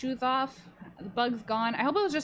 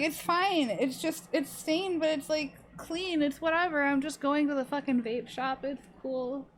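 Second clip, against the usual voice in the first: breezy dismissal; 5 semitones higher, slower than usual. Retold or imitated. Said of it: "And I was like".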